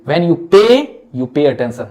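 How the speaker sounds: when you PAY, you PAY attention, PAY leaned on slowly; stress on pay. Shown as a demonstration. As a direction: lean into pay each time. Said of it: "I repeat again".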